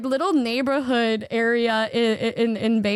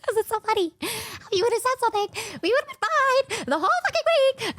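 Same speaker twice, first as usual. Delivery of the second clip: pitched-up laughing complaint; laughing exasperation; 8 semitones higher, faster than usual. Retold or imitated. Complaining to her friend while laughing, higher.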